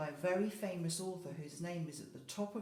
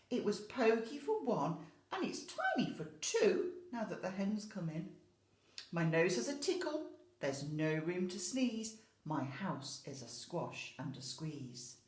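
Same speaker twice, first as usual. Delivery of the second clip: put-on high, louder complaining old woman; fussy old lady; 3 semitones higher, 4 dB louder than usual. Old lady complaining about her house, fretful high voice. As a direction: grumble it out, fading at the end. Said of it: "she says".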